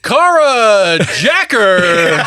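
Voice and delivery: announcer intro. Acted. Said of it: "welcome to the stage".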